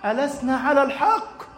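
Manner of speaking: a hurt, angry appeal to the Prophet; angry protest. Acted. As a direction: Umar bursting in on the Prophet, angry and calling out. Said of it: "يأتي النبي غاضبا".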